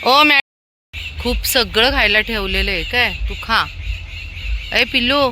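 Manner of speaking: high, loud call to a pet. Real, not acted. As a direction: call the puppy over. Calling and cooing to animals.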